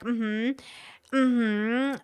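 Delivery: soft, rising "mm-hmm"; imitated noncommittal hum; retold agreeing hum. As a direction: hum along quietly in agreement. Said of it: "I'm like".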